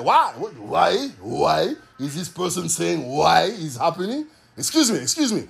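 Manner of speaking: lightly put-on Russian accent; Russian-accented God. God interrupting people who ask why, mock Russian accent. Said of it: "God being like a Russian".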